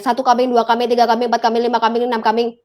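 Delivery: even, run-on counting drill; tongue-twister drill. Shown as a demonstration. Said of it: "latihan kayak tongue twister gitu ya".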